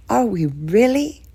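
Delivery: slow, stress landing on really. A narrator's reading. Daughter doubting the news, stressing really slowly. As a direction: lean hard on really. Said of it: "the stress on that last word".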